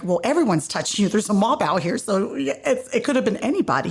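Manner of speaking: quick, rising exasperated retort; mock protest. Disciples answering Jesus in the mob, protesting. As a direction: protest it fast, pitch climbing.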